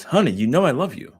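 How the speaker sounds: mildly dismissive dad voice; quoting her dad. Retold or imitated. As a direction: toss it off like a dad brushing her aside. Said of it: "She's saying, what he said is".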